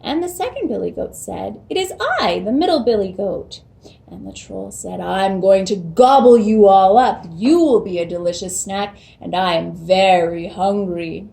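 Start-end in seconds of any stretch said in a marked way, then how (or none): 1.7-3.6 middle goat. Acted. Middle goat answers troll. 5.0-11.3 loud, hungry troll threat. Acted. Troll threatens middle goat.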